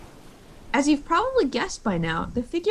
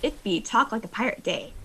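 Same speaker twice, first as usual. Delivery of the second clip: hearty pirate greeting, pitched up. Pretend. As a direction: hail the crew like a pirate captain. Talk Like a Pirate Day greeting.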